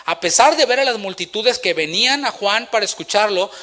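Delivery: usual speaking voice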